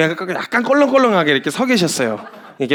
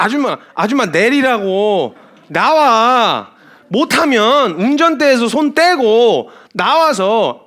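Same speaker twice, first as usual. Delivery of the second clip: blunt worker order; 4 semitones higher, much slower than usual. Retold or imitated. Dock worker ordering the woman out of the truck, slow blunt command. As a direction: tell her to get out, no patience. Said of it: "막 이러고".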